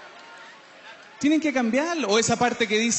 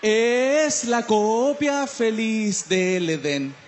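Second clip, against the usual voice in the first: slow quote; much slower than usual. Retold or imitated. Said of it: "esa parte que dice".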